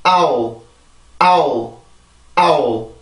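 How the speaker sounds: 아오 stressed on 아, ending softly without lengthening; short soft ending. Shown as a demonstration. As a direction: glide down and just place the tongue to finish 아오. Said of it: "아주 부드럽게 내주고".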